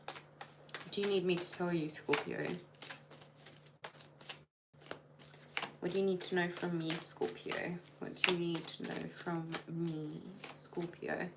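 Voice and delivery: quiet voice, the name breathed as a whisper; hushed questioning. Acted. Reader asking the cards for Scorpio, softly whispering.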